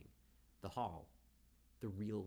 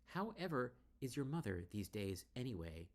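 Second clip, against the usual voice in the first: darkly; 6 semitones higher than usual. Acted. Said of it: "she says darkly".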